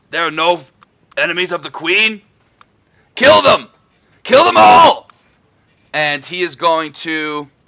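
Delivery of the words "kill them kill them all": loud, rising yell in a monster voice. As game master voicing a foe pointing at the party, yell its orders. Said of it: "They yell out".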